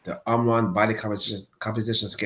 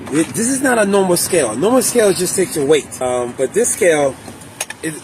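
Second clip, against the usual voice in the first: recorded clip; 8 semitones higher, 8 dB louder than usual. Real, not acted. Video clip of own review.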